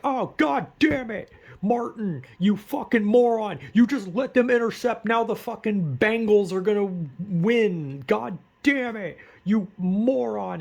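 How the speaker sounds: high, loud yelling at the TV; angry drunk dad. Retold or imitated. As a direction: rage at the quarterback like a drunk football dad. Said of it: "they're like".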